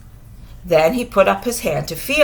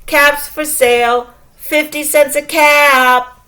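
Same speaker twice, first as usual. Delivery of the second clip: a light street-seller call, louder; peddler calling; 5 semitones higher, 3 dB louder than usual. Acted. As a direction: call out wares to the town. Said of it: "walked back to town calling".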